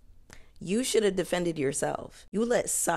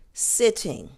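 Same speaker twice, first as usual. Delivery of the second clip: emphatic yelp; 8 semitones higher, 5 dB louder than usual. Real, not acted. Emphatic repeat of burning calves.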